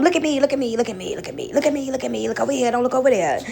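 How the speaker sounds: mocking a needy attention seeker. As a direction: chant it like someone begging to be seen. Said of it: "keep you distracted".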